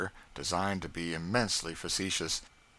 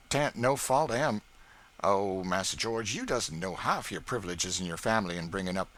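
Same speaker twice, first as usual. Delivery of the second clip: Aunt Chloe's voice, higher and louder, mocking the neighbours; proud servant belittling another household, raised; Aunt Chloe scornful of rivals; 5 semitones higher, 5 dB louder than usual. A narrator's reading. Cook boasting her household over the Lincolns, scornful.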